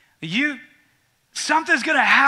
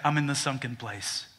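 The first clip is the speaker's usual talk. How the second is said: lower, softer, dejected; gloomy low friend; 6 semitones lower, 7 dB quieter than usual. Retold or imitated. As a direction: sink into it. Sometimes he'll say.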